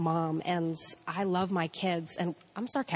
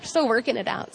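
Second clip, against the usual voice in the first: laughing; 6 semitones higher, 7 dB louder, much slower than usual. Real, not acted. Laughing at the story.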